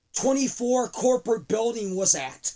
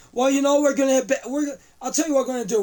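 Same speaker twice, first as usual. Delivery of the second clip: louder, rushing wrestling boast; loud fast heel promo; 4 semitones higher, 4 dB louder, faster than usual. Acted.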